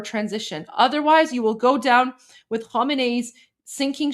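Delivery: measured, formal delivery of a political message; formal speech reading. Acted. Host translating the exiled leader's message for followers, formal read. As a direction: read the statement out like a solemn address.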